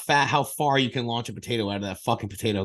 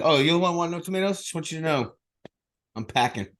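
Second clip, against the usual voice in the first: mock tough cook; 4 semitones higher than usual.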